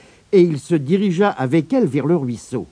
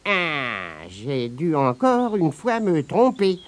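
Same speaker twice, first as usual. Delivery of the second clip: soupirer; 5 dB quieter, slower than usual. Acted. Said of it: "soupira Abigail".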